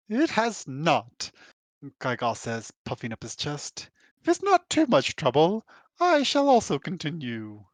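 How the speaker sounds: slow, haughty British drawl; lightly done British drawl. Acted. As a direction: drawl it like a pompous British gentleman. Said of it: "Can I do a British drawl?".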